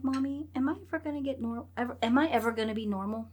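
quick worried kid's question, a hint of a child; imitating her young son. Mom retelling her son's question.

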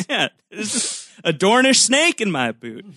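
high talking-toy catchphrase, with a laugh; pull-string toy voice. Retold or imitated. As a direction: toy cowboy doll voice. Riffing on the action figure voice.

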